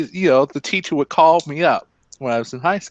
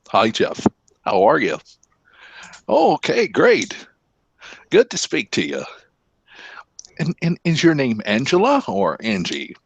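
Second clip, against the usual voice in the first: put-on old white man voice. Shown as a demonstration. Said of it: "You sound like an old white man".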